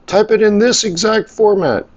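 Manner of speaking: high-pitched mocking read-out; mock fussy instruction. Grumpy customer reading out form rules, high mock voice. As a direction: push it way up high, mimicking a fussy order.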